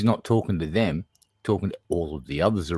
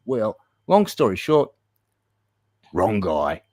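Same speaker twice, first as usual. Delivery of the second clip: ordinary delivery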